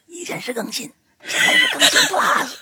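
whispered, cracking hoarse imitation. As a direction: mimic her sore, hoarse throat. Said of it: "你看大玲玲今天嗓子".

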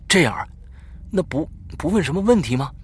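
high, loud, stammered question; startled question. A narrator's reading. Boy asking his friend about the game after a fright, startled. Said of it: "我吓了一大跳，问他".

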